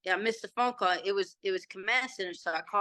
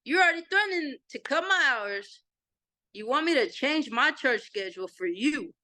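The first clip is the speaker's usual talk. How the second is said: indignant retort, pitched up at first then easing; pissed off; 2 semitones higher than usual. Retold or imitated. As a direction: retell an angry challenge to an official. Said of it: "I was pissed by then".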